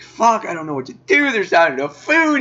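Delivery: mock whimpering. Reviewer imitating Brandon panicking, mock whimper. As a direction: whimper it like a scared kid, half-joking. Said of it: "He's all whimpering and crying".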